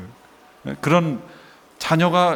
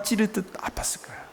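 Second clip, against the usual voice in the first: hushed breathy whisper of pain; dramatic whisper; 6 semitones higher, 10 dB quieter than usual. Acted. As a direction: drop to a whisper as if wounded. Preaching on Mary's pierced heart.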